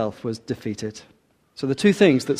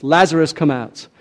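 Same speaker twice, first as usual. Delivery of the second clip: raised, louder call of the name; 3 semitones higher, 5 dB louder than usual. Acted. Jesus calling into the tomb, loud commanding call. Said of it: "he calls out in a loud voice".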